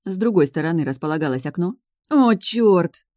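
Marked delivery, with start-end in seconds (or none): 2.1-3.0 sudden high yelp; squeal. A narrator's reading. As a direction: squeal it out in pain. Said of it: "взвизгнула Эленор".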